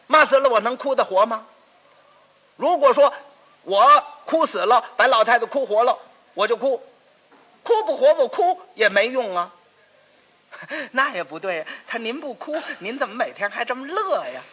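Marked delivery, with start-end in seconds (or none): 0.1-9.5 indignant argument. Acted. Indignant argument about crying.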